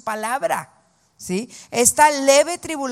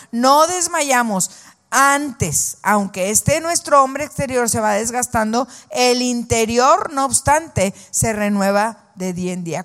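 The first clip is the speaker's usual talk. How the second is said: fervent scripture proclamation. Acted. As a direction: proclaim the promise boldly. Proclama el versículo. (proclamación fervorosa del versículo)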